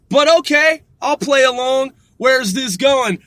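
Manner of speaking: high, loud sarcastic play along; mock going along with it; knowing. Skeptical observer playing along.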